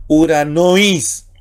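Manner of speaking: "uranois" stressed on the "nois" ending; circumflex stress. Shown as a demonstration. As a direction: lean on the last part, ura-NOIS, in "uranois". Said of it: "porque ahí entonamos por el circunflejo".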